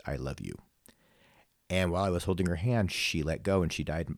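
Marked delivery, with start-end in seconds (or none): 0.1-0.6 barely voiced, very soft and low; just breathe the words, almost silent; mouthed words. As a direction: grandson retelling his dying grandma's last mouthed words, near soundless. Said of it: "She mouthed".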